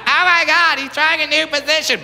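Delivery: lightly voiced thrilled lover; mock excited woman. Woman in bed thinking he tries something new, mock excited. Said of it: "the woman starts freaking out".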